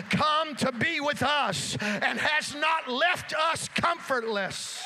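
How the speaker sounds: forceful sermon cadence, phrase by phrase; emphatic preaching. Real, not acted. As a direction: proclaim it with rising fervor. Preacher proclaims who Jesus is.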